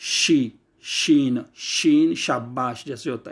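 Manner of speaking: शी and शीन with a clear sh; sh sound. Shown as a demonstration. Teacher to students: demonstrating the sh sound. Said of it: "शीन की आवाज़ देगी".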